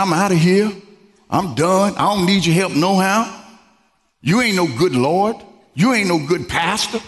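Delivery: mock huffy walk-out; sassy attitude. Imagined woman talking back to her pastor, with attitude. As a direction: act out someone fed up and dismissive. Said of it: "she didn't get no attitude".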